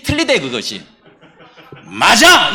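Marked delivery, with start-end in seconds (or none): 1.9-2.5 "맞아!" shouted loud with conviction; loud, decisive demo of "맞아!"; emphatic exclamation. Shown as a demonstration. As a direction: punch out "맞아!" as a loud affirmation. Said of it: "이게 이렇게 읽어야 된대".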